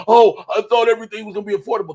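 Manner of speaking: quick, whiny mock complaint; mocking donors who regret it, fast and whiny. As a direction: rush it out like a disappointed buyer. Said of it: "they're like".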